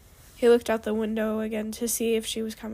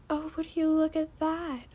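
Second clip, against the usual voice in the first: higher, mock-sweet put-on voice; cooing villainess; 5 semitones higher than usual. A narrator's reading. Female dragon spotting the couple together, cooing. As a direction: coo it with false delight. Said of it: "a female dragon's voice cooed".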